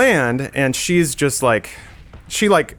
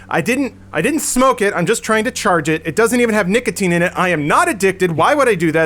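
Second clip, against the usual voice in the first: higher, rapid indignant rant; mock defensive rant; 5 semitones higher than usual. Mocking the woman ranting at the attendant, defensive. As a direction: imitate her launching into excuses. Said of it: "launches into this thing".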